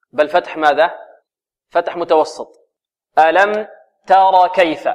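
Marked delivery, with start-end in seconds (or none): 3.2-4.9 "تر" with light t, plain a and heavy raa; correct middle fatha. Shown as a demonstration. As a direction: model "تر كيف" with an untilted, undarkened first vowel. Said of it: "هكذا". ("تر" بفتح متوسط للتاء)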